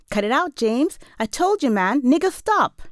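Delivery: put-on high, loud kids' yelling; screaming at him. A narrator's reading. Kids screaming at James to drop the snowball, high yell. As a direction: yell it as exasperated kids, pitch jumping up. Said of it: "They scream at him".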